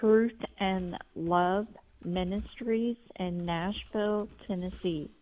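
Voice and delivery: slow, clear dictation; slow and careful. Shown as a demonstration. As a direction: spell it out slowly for a listener. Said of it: "what was the website again".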